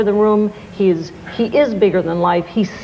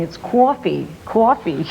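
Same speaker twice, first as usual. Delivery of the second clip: put-on New York accent; slower than usual. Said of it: "The word is coffee".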